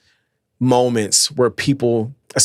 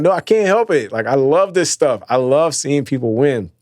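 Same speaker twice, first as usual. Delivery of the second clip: mock-defensive; 4 semitones higher than usual. Husband defending his crying to his wife, hammed-up protest. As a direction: protest like you're helpless against your own feelings. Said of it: "I'm like".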